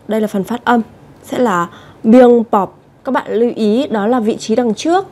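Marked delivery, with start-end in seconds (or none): 1.2-2.8 a teacher slowly modelling "biếng bọc" with a doubled B; slow pronunciation demo. Shown as a demonstration. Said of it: "đây là phần phát âm nhá".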